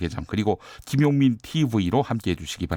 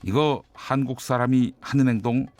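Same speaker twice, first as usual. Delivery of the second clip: measured, emphatic opening monologue read; news commentary read; 4 semitones higher than usual. Acted. Host reading the day's commentary to listeners, news commentary read. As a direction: deliver a scripted radio editorial with deliberate pauses.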